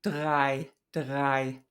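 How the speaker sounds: drei with an airy uvular R; uvular approximant R. Shown as a demonstration. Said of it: "And that is an approximant".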